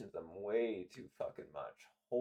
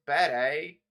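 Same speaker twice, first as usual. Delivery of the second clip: Forrest Gump voice; 2 semitones higher, 9 dB louder than usual. Retold or imitated. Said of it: "a Forrest Gump".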